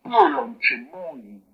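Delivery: Polonchemoni slow and loud, with a crying catch; sad demo. Shown as a demonstration. Teacher acts out the sad welcome for a visiting lord. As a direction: draw out Polonchemoni like a sad lament. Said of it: "la pronunciación es la siguiente".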